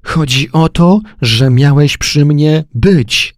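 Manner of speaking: high, loud furious wife; furious outburst. Acted. Wife shouting at her husband, loud and high in fury. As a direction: lash out at him.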